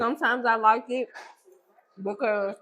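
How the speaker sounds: talking while chewing; words round a bite of food; mouth full. Real, not acted. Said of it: "talking with your mouth full".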